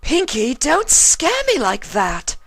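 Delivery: high, loud startled yelp; startled shout. A narrator's reading. Fluttershy startled by Pinky, high shout. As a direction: cry out after a fright. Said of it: "she shouted".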